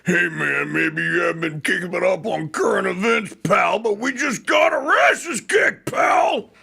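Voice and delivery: high, strained panicky movie whine; Bill Paxton. Acted. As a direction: cry it out like a desperate soldier losing it. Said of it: "In my best Bill Paxton voice".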